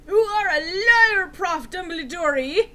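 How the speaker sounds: high, loud, slow accusation; accusing shout. Acted. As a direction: hurl it at him. Hagrid accuses Dumbledore.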